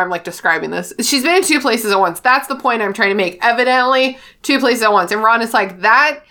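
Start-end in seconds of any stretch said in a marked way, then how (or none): 5.8-6.2 very drawn-out, louder protest; mock bafflement. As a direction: stretch every word in baffled disbelief. Voices Ron's bafflement at Hermione.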